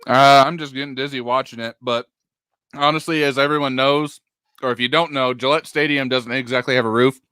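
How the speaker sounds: talking through chocolate; words round a bite of chocolate; mouth full. Real, not acted. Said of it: "I got a piece of chocolate in my mouth".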